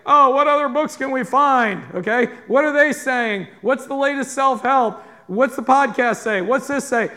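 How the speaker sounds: mock seeker. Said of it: "We don't look around and say".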